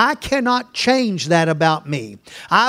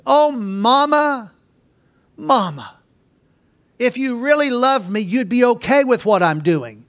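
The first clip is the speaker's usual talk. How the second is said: put-on whining child; 4 semitones higher than usual. Child pleading with mother.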